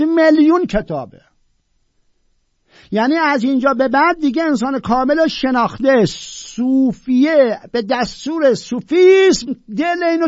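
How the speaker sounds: high, loud, near-tearful rapture; ecstatic praise. Real, not acted. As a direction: preach it as if overwhelmed.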